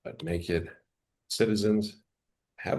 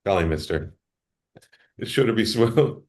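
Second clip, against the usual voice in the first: put-on wholesome 1950s kid; 3 semitones higher than usual. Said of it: "I'm gonna go that route".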